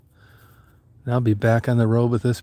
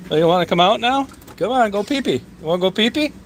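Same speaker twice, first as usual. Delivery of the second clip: pet talk; 8 semitones higher than usual. Real, not acted. Coaxing Daisy out to pee, high baby talk. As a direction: coax the dog out sweetly.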